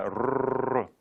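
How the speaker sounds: r held as "rrrr"; sustained r vowel. Shown as a demonstration. Teacher pointing out that sound, sustained r. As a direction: draw the r out as a syllable. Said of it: "can sound like rrr".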